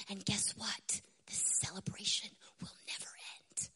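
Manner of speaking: hushed summons. Acted. Voicing the throne's solemn summons.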